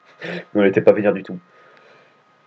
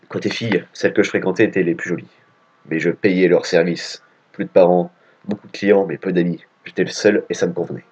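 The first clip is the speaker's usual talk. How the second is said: lower, grave inner-monologue read; hero's monologue; 3 semitones lower than usual. Acted. Player reads the hero's monologue, low and grave. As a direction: voice the brooding hero lightly, in a low register. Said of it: "il se fait un monologue".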